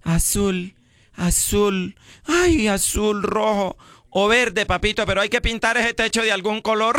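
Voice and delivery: voz lenta y mimosa que termina en reclamo; colombiana mandona. Retold or imitated. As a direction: haz de la colombiana que pide pintar el techo. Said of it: "qué dice la colombiana". (la colombiana le habla al marido, mimosa y práctica)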